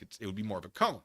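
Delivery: ordinary delivery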